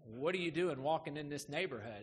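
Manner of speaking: imitating a suspicious challenge, mildly done; mock aggressive challenge. How the passerby heard the greeting, mock aggressive challenge. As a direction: question a stranger as if he has no business here. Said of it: "It sounded aggressive to him".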